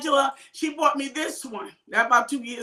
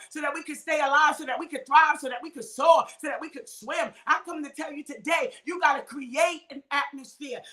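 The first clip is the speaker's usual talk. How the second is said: stirring sermon, voice raised and ringing; full-force preaching; 3 semitones higher than usual. Acted. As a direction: preach it home to the congregation, building to shouts.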